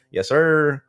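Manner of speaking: "Yes, sir" high and loud, hammed-up; mock formal "Yes, sir". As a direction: play the over-the-top polite kid. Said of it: "or I'll be like".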